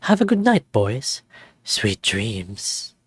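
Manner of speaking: lightly voiced host, eerie farewell; ominous goodnight. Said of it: "something seemed off with his last words".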